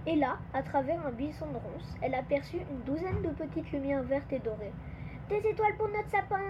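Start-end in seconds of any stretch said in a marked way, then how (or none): 5.3-6.4 high-pitched delighted exclamation; excited cry. A narrator's reading. Nina spots stars for the tree, excited cry. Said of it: "s'écria Nina".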